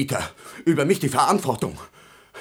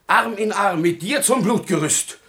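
rising to a raging shout; building to a shout; 8 semitones higher, 4 dB louder than usual. Acted. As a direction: drag him down with you to hell. Father threatens Wurm, dragging him down.

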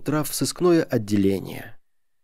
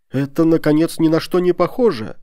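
raised, higher voice in protest; indignant shout; 6 semitones higher, 5 dB louder than usual. A narrator's reading. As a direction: cry out like an outraged lady. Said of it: "кричала высокая дама".

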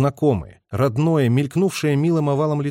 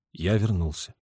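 tender; 5 semitones lower, 5 dB quieter than usual. A narrator's reading. Tender reply.

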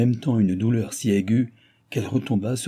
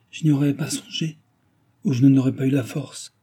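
higher, guileless reply; sincere candour; 5 semitones higher, 4 dB louder than usual. A narrator's reading. Mistress answering her maid in all innocence, candid. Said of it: "avec une sincère candeur".

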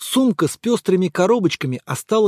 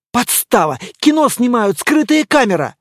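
excited shouting; 5 semitones higher, 4 dB louder than usual. Acted. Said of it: "вторил ему другой".

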